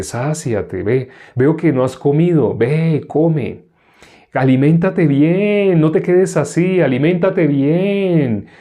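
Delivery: lightly acted urging, stretched phrase endings; mock hollow well-wishing. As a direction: play someone urging a sibling to eat. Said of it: "si alguien le dice a su hermano".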